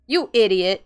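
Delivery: loud furious yell; angry shout. Acted. Tori yelling at the player for answering the voice, angry shout. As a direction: bark it at him like a scolding friend. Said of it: "He was really mad at me".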